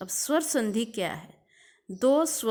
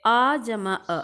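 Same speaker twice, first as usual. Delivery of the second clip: loud demo; 8 dB louder, slower than usual. Shown as a demonstration. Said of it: "ऐसे ये सारे आप देख लेंगे".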